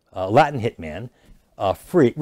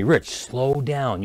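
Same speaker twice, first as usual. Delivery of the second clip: slow down; much slower than usual. Retold or imitated. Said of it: "he says to me".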